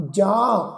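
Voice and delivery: ਜਾਂ with a nasal aan; nasalised vowel. Shown as a demonstration. Teacher showing how this line is read, ਜਾਂ nasalised. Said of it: "ਬਿੰਦੀ ਸਹਿਤ ਉਚਾਰਨ ਕਰਾਂਗੇ".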